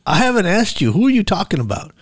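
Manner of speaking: high-pitched, baffled retort; baffled protest. Retold or imitated. Friend has no idea who is meant, baffled. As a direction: object in confusion, pitched well up.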